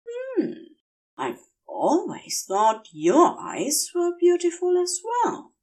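put-on a giddy angel drunk on venom, gushing; tipsy Aziraphale.

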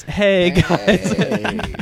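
mock stage cheer. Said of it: "instantly back on this".

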